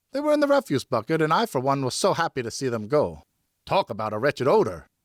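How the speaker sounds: a servant casually reporting the boots were burned; servant's reply. Acted. Servant explains the refuse bucket.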